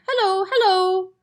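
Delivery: high, loud squawking parrot; parrot calling. A narrator's reading. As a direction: call down the chimney squawking. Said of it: "the bird called down".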